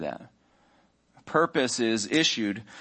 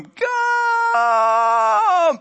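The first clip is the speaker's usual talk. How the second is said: high, loud drill sergeant yell; drill sergeant shout; 7 dB louder than usual. Retold or imitated. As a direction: bark the name across the room. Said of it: "the drill sergeant's voice from across the room".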